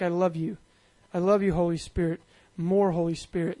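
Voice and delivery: affectionate little phrases. Shown as a demonstration. Preacher showing how to speak to the Holy Spirit, affectionately. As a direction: murmur them gently like a love note. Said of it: "we speak affectionately".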